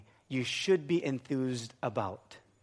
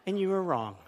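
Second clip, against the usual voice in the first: measured, higher-pitched gloating; smug triumph; 3 semitones higher than usual. Retold or imitated. Wife silently gloating over husband's mistake, smug pronouncement. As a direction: spell out the silent look, savouring it. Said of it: "The look of".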